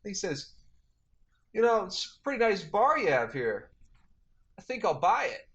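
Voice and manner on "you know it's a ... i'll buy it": mild mock O J. O J voiced buying the bar.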